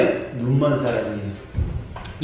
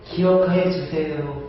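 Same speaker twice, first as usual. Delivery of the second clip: humble prayer. Acted. Hezekiah's true humble prayer.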